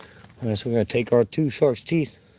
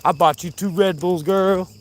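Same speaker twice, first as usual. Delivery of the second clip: higher-pitched, teasing sweet-talk; playful put-on sweet talk; 8 semitones higher than usual. Vlogger teasing girlfriend about Red Bulls, playful higher voice. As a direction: croon it lightly at a sweetheart. Playful repeated line, then hammed up.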